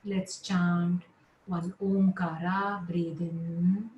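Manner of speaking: measured yoga nidra instructions with long pauses; guided relaxation. Real, not acted. Yoga teacher settling students lying down, guided relaxation. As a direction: guide them into rest, phrase by phrase.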